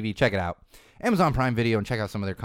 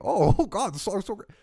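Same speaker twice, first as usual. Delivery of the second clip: much higher, laughing gush; laughing mock fan; 11 semitones higher, 3 dB louder than usual. Podcaster mocks millennials fawning over a song, laughing.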